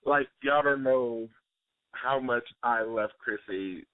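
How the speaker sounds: real tears welling, voice thick; choked up and crying over the fan; teary. Real, not acted. Fan meets idol on radio and cries, voice thick. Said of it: "Willie, are you really crying?".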